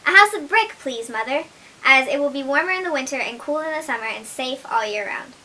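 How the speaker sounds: eager good little son; little pig voice. Acted. Blackie answers his mother.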